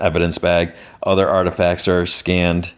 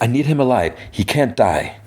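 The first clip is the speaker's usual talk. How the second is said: mildly acted urgency, pitched up; urgent demand; 5 semitones higher than usual. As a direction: insist to the medics, lightly dramatized. Retold urgent demand to medics.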